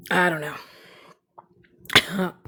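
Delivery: slow hushed whisper; whispered shrug. Real, not acted. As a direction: drag it out in a whisper. Whispered repeat of line 104.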